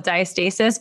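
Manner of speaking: "diastasis" as die-uh-STAY-sis; Canadian friends' pronunciation. Shown as a demonstration. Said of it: "friends in Canada call it".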